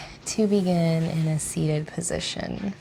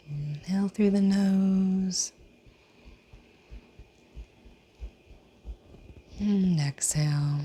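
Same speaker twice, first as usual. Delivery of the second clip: guided breathing. Real, not acted. Yoga teacher leading seated breathing, guided breathing. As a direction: guide them through breaths, drawing out the last words.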